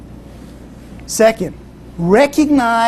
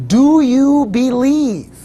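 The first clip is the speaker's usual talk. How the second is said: slow, booming, higher voice from above; voice of the Lord; 6 semitones higher, 4 dB louder, much slower than usual. Retold or imitated. The Lord tests the dangling hiker, slow booming question. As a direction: boom the question down slowly, louder. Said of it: "and it says".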